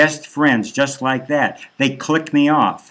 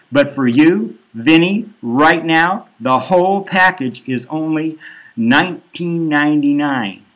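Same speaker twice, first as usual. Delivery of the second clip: pushy sales pitch; 2 semitones higher than usual. Acted.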